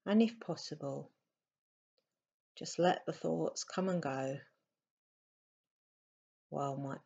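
softly spoken meditation guidance with long pauses; unhurried, slightly hushed meditation voice; guided meditation. Acted. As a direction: guide them gently into stillness, leaving space between phrases.

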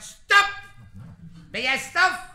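loud, high shouted halt; sentry's challenge. Acted. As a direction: shout to stop an approaching car. Sentry halts the car.

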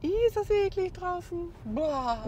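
high, squealing disgust at the rain. Real, not acted. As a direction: recoil from the nasty weather. Schmuddelwetter draußen im Regen.

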